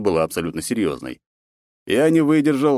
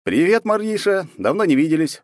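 smiling greeting; 11 semitones higher, 4 dB louder than usual. A narrator's reading. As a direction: greet an old friend with a smile. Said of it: "улыбнулся я".

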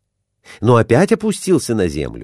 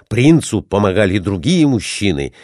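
usual speaking voice

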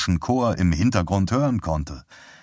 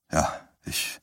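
shaken whisper; 8 dB quieter than usual. Acted. Herb shaken on the phone.

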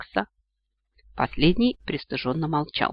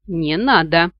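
a slightly louder cry of protest; mild mock yell; 4 dB louder, slower than usual. Max on the tree begging them to stop, a mild yell. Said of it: "завопили с дерева".

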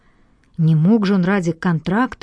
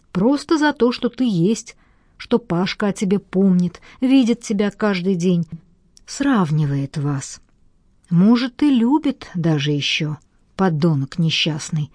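indignant. Acted. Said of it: "возмутилась Маринка".

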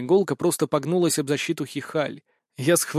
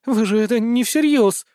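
pleading; 6 semitones higher, 4 dB louder than usual. Acted. Zoe pleading.

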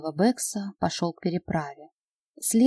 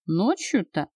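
недоверчиво; slower than usual. Acted. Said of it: "недоверчиво переспросил мародёр".

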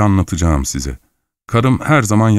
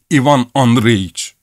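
slow, drawn-out call, pitched higher; 4 semitones higher, slower than usual. Acted. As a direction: stretch the name out to summon him. He calls the man over.

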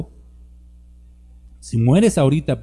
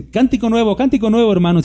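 mocking worship leader; 6 semitones higher than usual. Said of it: "no han visto esos que dicen".

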